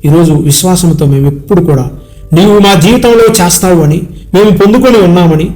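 earnest spoken prayer, addressed to God in rolling phrases; congregational prayer. Real, not acted. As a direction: intercede for the congregation, list after list.

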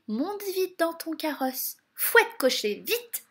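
high, excited urging; urgent. A narrator's reading. Fairy sending the coachman off, urgent. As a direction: hurry them off with a rising cry.

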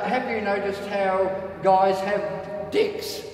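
slow, drawn-out stand-up punchline; stand-up routine. Acted. Rod carrying on his routine for the crowd, slow stand-up delivery. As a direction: deliver it slowly to a comedy crowd. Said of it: "And then Rod says".

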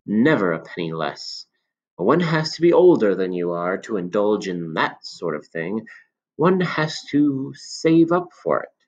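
put-on a knowing old shopkeeper confiding; old man. Old man voiced in story.

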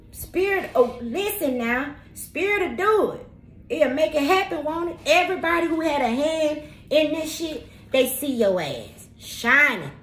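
rising excitement, almost shouting; fired-up preaching. Real, not acted. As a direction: testify it like a sermon at full force. Preaching Spirit's power to viewers.

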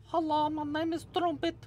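very high little creature voice; squeaky-high cartoon seahorse introducing himself. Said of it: "Maybe that's how he talks".

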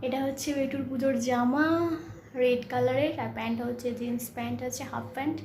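speaking softly. Real, not acted. Mother showing baby's new outfit while baby sleeps, speaking softly. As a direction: keep it down so the sleeper isn't woken. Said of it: "আমি খুব আস্তে আস্তে কথা বলছি".

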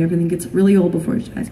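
quick repeated reassurance, brushed past; hurried reassurance. Retold or imitated. Parent putting off a child's worry, hurried imitated reassurance. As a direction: rattle it off to soothe a child.

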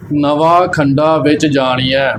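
slow "ਨਵਾ ਖੰਡਾ" with oral final vowels; without bindi. Shown as a demonstration. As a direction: end "ਨਵਾ" and "ਖੰਡਾ" without nasal sound. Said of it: "ਬਿਨਾਂ ਬਿੰਦੀਆਂ ਤੋਂ ਇਸ ਦਾ ਉਚਾਰਨ". ("ਨਵਾ ਖੰਡਾ" ਬਿਨਾਂ ਬਿੰਦੀ)

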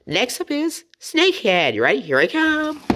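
high and full-voiced, an eager retake. Shown as a demonstration. Retaking the Snakehead intro, said with full energy. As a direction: punch it out with energy. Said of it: "Take two".

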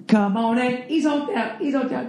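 high, soft mocking fan chant, fading; mocking Wizards fans. Mimicking gloating Wizards fans at the Celtics, high and mocking. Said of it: "the Wizard fans".

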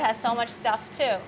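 muffled by surgical mask; speaking behind mask; through a face mask. Real, not acted. Seen 0: Surgical mask over her mouth while talking; then a slide appears.

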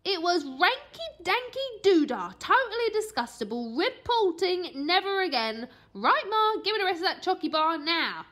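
put-on high, loud kid voice, stumbling over the word; a boy groping for nutritious; cheeky boy voice. A narrator's reading.

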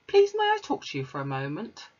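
a hint of a polite little girl; Matilda. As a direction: ask shyly as a small girl. Matilda voiced in story.

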